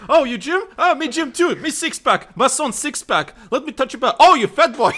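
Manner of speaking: a hint of a broken-English tourist. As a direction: play the blunt stranger, teasing. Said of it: "Looks at your legs".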